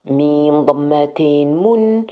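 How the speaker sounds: letter by letter, naming each vowel mark; letter spelling. Shown as a demonstration. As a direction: spell out mim with double damma: mun. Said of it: "spelling drill of tanween".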